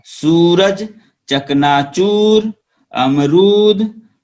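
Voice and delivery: सूरज, चकनाचूर, अमरूद, दूत with drawn-out uu, slow; long uu stretched. Shown as a demonstration. Teacher models long uu words for pupils, slowly. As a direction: hold the uu long. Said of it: "बड़ा ऊ की मात्रा".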